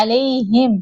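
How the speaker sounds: علیہم starting with a pressed throat ain; clear ain. Shown as a demonstration. Teacher isolating the ain sound. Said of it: "عین کی آواز نکالیے گا".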